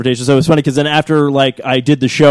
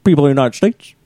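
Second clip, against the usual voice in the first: slowed Obama. Retold or imitated. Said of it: "slow it down and be like".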